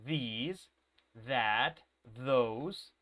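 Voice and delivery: These, that, those with a voiced th. Shown as a demonstration. Teacher showing students how to say it, These, that, those with voiced th. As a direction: model These, that, those one by one, th buzzing. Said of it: "that's the way you pronounce this".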